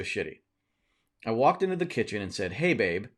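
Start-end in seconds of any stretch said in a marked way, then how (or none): 2.5-3.1 not-nice "hey babe". Retold or imitated. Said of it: "but not in a nice way".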